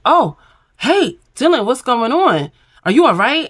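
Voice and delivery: high fake-caring voice; sweet concerned greeting. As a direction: play the overly sweet friend checking in. Kata greeting the crying Dylan.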